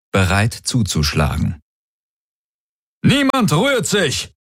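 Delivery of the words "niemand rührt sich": high, barked command; barked order. A narrator's reading. Commander barking orders over the comm. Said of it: "bellte Daraios in sein Komm".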